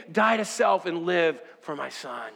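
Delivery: mildly hushed ending to a plea; solemn preacher voicing God; God's solemn appeal. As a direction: let God's plea settle downward. Preacher voices God's appeal, dropping down.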